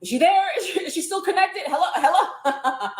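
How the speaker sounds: imitating panicking producers. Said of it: "the people, like, panicking".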